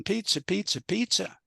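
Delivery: a hint of someone rehearsing alone; practicing a word. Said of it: "So he practices all alone".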